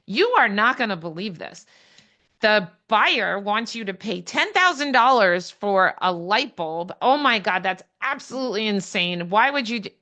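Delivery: mock outrage to stir the seller up; riled-up outburst. Agent riling up the seller over the request, in hammed-up outrage. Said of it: "now I'm riling up the seller".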